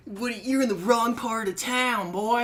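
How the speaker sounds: mock redneck thug. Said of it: "they're like".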